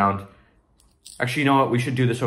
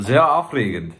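German words; slower than usual. Pretend. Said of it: "That's German".

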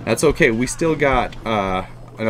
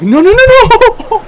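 very high, loud rising no's; real despairing yell; anguished shout; 12 dB louder than usual. Real, not acted. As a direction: scream it as the game is lost. Losing the battle at last second.

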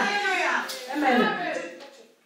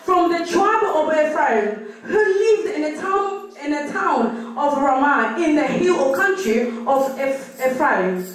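measured, deliberate reading aloud; scripture reading; much slower than usual. Acted. Sister reads the passage to the congregation, deliberate scripture reading. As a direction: read out the Bible passage phrase by phrase.

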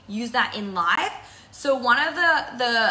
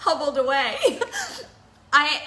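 laughing; 4 semitones higher than usual. Real, not acted.

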